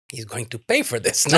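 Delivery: put-on voice for a retold threat; Marcel voice. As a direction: slip into a put-on character voice. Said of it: "The Marcel voice".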